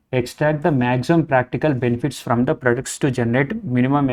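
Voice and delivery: reading the question aloud, slowly. Acted. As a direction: read the exam line out deliberately.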